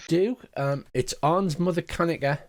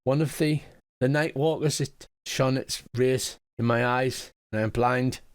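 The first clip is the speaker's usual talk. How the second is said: put-on old woman. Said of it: "She says".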